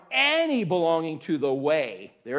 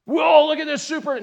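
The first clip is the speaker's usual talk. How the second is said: mock amazement; 7 semitones higher, 6 dB louder than usual. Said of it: "But anyway".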